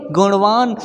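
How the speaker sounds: गुणवान as "guṇvaan", curled-tongue ṇ; touch the roof of the mouth on the ण of गुणवान; retroflex ण. Shown as a demonstration. Teacher models गुणवान for learners, retroflex ṇ. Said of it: "क्या बोलेंगे?".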